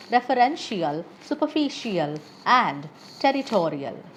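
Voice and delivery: adverbial, editorial, official, territorial stressed just before the ending; stress before "ial". Shown as a demonstration. Teacher giving learners examples of the rule, pre-ending stress from "adverbial" to "territorial". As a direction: hit the syllable before "ial": confiDENtial, meMOrial, superFIcial. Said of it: "primary stress is placed just before the syllable".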